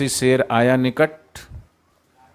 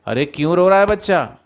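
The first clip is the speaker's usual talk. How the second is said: higher and louder, a showy call meant to carry; loud staged question; 5 semitones higher, 3 dB louder than usual. Acted. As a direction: call it out for the lion to overhear. Jackal loudly asking again.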